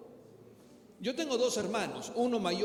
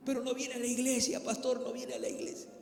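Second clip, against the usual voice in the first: tearful mother; 4 semitones higher than usual. Retold or imitated. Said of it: "Y llorando así en lágrimas decía".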